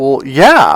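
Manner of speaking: plainly incredulous, disbelieving tone. Retelling how she answered a question: imitating an incredulous tone. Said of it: "she said in, in an incredulous way".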